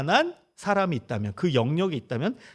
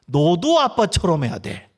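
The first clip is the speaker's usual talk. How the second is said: pushy; 5 dB louder than usual. Retold or imitated. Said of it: "이러면 또 강요가 돼요".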